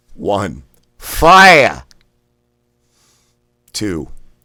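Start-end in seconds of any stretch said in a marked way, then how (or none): 1.0-1.9 loud Boston accent, r dropped in fire. Counting out five reps, saying fire in a boston accent. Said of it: "we're going to pronounce this as fire, like a Bostonian".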